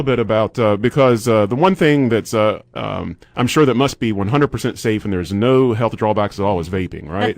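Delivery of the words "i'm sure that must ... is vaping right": dry mock endorsement; tongue-in-cheek sincerity; sarcastic. Radio host jokingly praising vaping as totally safe, sarcastic. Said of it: "I'm being really sarcastic".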